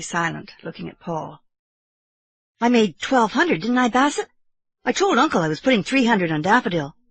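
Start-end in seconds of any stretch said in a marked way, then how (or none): 2.6-7.0 put-on higher, earnest young boy; earnest boy nephew. Boy telling uncle his winnings, earnest. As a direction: own up with a child's pride.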